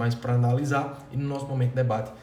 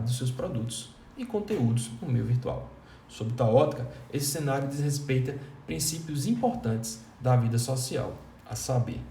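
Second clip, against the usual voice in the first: expressive reading. Shown as a demonstration. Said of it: "eu fui dando uma certa entonação".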